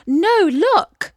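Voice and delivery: high, loud excited call; excited exclaim. A narrator's reading. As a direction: point and exclaim it. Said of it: "exclaimed Isis".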